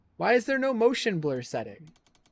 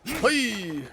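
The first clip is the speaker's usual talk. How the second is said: sharp, raised "hey" call; 7 semitones higher, 4 dB louder than usual. Real, not acted. Player calls out to game characters, loud shout. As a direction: shout out to get attention.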